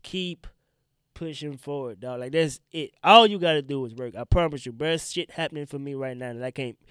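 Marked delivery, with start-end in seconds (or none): 5.0-6.8 stuffy, near tears; blocked nose, close to crying; congested voice. Real, not acted. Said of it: "I'm just congested, and it sounds like I'm about to tear up".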